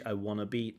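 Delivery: "I wanna be" with wanna contracted; contracted form. Shown as a demonstration. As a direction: say "wanna" not want to. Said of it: "nice contracted form".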